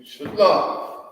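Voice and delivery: kickback shalom. Retold or imitated. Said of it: "They give kickback".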